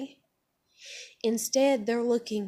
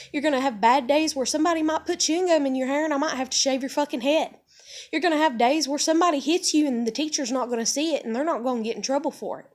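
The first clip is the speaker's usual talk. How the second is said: raised, hurried lecturing; mock blunt parent; 4 semitones higher, 4 dB louder, faster than usual. Parent to daughter on first school day, mock blunt lecture. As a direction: rattle off the harsh truths, pitched up. Acted blunt talk to five-year-old daughter.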